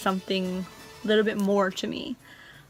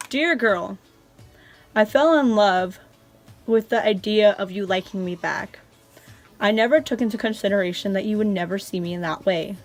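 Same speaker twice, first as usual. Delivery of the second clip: reading a love letter. Acted. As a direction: read it like a heartfelt diary entry. Reads old letter aloud.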